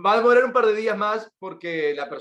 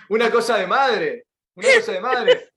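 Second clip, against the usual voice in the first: rising mock shout; 2 semitones higher, 5 dB louder than usual. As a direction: start plain, then shriek it. Mocking a mother's fuss.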